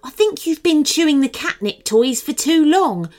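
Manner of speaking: mock a foolish friend; scoffing cat Remy. Remy scoffs at Annika's plan, high and scornful.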